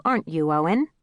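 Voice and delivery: a little extra weight on "aren't you, Owen"; "aren't you, Owen" said as a pointed tag question; pointed emphasis. A narrator's reading. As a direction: lean lightly on "aren't you, Owen" as a prompt. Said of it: "added a little extra emphasis to the last words".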